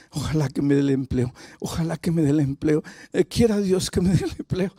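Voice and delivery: mock nervous wishing under the breath; hammed-up timid, repetitive pleading. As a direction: plead anxiously, like a trembling job seeker. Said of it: "Y tú temblando aquí".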